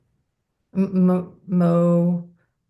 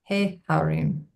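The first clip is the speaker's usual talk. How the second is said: syllable by syllable; 3 dB quieter, slower than usual. Shown as a demonstration. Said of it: "syllable by syllable".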